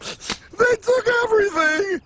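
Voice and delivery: indignant cry. Acted. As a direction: cry out that it's all gone.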